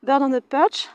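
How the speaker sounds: English phrase in a French accent; French-accented English exercise name. Real, not acted. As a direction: pronounce the English as a French speaker would. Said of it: "m'excuserez pour mon accent anglais".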